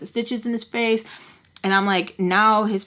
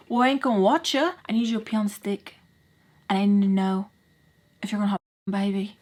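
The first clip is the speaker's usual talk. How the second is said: voiced stepdad; faster than usual. Voicing stepdad insisting on test.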